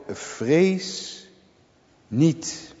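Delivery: geruststellend. Acted. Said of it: "zegt Elisa ook".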